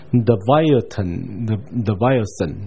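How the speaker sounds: "Leviathan" said slowly the English way; English pronunciation. Shown as a demonstration. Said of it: "那个是英文的读法". (用英文读法慢慢念出“Leviathan”)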